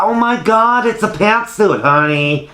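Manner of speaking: high-pitched, squealy exclamation; excited realisation. Retold or imitated. Realising the frock is a pantsuit, excited. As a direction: gush it high like a sudden revelation. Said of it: "it was like".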